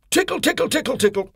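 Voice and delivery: high, squeaky tickle tickle; playful tickle. A narrator's reading. Mister Tickle tickling the postman, high and playful.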